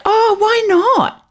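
high, slow New Zealand "Oh, why not?"; New Zealand accent. Retold or imitated. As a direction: drawl it in a Kiwi accent. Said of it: "in her most New Zealand accent".

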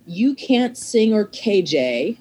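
slow, deliberate note reading; reading the note aloud. Retold or imitated. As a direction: spell out the insult slowly. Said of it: "and it said".

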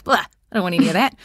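fast, dismissive brush-off; dismissive scoff. Retold or imitated. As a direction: wave it all away. Mocking people's dismissive reaction.

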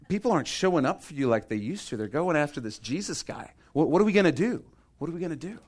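lightly acted worried follower; fret, with the questions lifting up; worried disciples. Acted worried disciples appealing to John.

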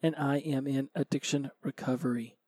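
sultry, a little hoarse from a cold. Real, not acted. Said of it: "Got my nice little sultry voice going today".

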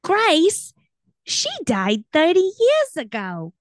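put-on high, loud, confused old lady; dotty old aunt, squawked high; Aunt Bethany. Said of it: "I were Aunt Bethany".

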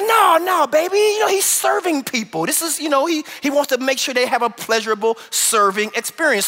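lightly voiced wife explaining; soothing wife. Wife calms jealous husband about the waiter, lightly voiced.

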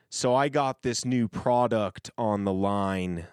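slow country drawl; drawling hick pitch; hick accent. Shown as a demonstration. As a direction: lean into the hick voice. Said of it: "That sounds better".

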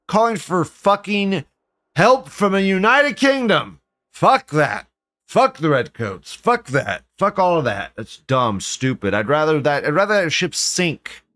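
heated, emphatic disgust; indignant rant. Real, not acted. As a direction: rant indignantly, pitch jumping up on key words. Indignant rant against foreign help.

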